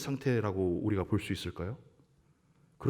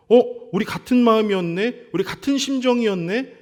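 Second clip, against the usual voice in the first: higher, bright rising "어, 우리 같은 마음이었네?"; delighted; 6 semitones higher, 3 dB louder than usual. Shown as a demonstration. Friends discovering they think alike, delighted and higher. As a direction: sound thrilled to find you agree. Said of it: "생각이 딱 맞아떨어지는 것".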